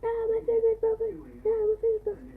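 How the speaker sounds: high hammed-up yelp of pain; mock pain. Mock pain after pressing.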